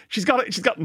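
imitating an excited onlooker; excited realisation. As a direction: retell a thrilled thought, pitch up. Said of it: "And I was like".

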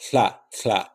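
hla with a breathy hiss at the side of the tongue; hla, tongue on the teeth, air hissing past the sides; lateral fricative. Shown as a demonstration. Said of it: "a lateral fricative with a dental articulation".

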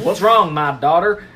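hammed-up Texas dad; Texan country accent. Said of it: "he's got a big c-, country accent".

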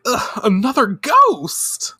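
high, slow exasperated whine; whiny complaint. Retold or imitated. Usagi annoyed at yet another ghost, whining. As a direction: groan it like a put-upon heroine. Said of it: "And she's like".

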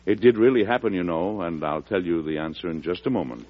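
easy storyteller addressing the listeners; host narration. Acted. Host turning to the radio audience, storyteller manner. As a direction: lean in and share the secret.

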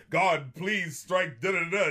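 slow, lightly declaimed mock curse; imitated Shakespearean cursing. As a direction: imitate a stage actor appealing to God. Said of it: "giving this, uh, Shakespearean phrasing, cursing the landlord".

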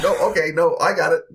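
high, hurried submissive reply; obey the master at once; meek henchman. Acted.

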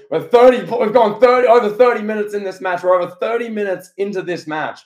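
lightly imitated commentary excitement; wrestling commentator. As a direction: call it like an amazed match commentator. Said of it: "Commentary goes".

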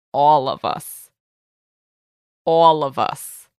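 lightly put-on Brooklyn accent for Ptolemy; a hint of Brooklyn tough-guy talk; mock Brooklyn accent. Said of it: "That's Ptolemy's accent?".

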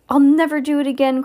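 high, loud, rushed promise; desperate cry. A narrator's reading. Mister Gregg promising the armed ducks, desperate cry. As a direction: cry out a panicked vow. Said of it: "cried Mister Gregg".

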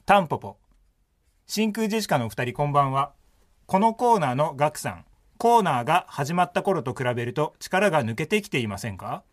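clear, measured reading aloud; radio host reading mail; radio letter read. Acted. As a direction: present the listener's message in neat phrases. Reads out listener's letter.

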